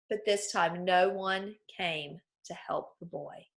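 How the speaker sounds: put-on expressive read-aloud for children; story reading. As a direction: read the fable to the class with expression. Teacher reads fable aloud.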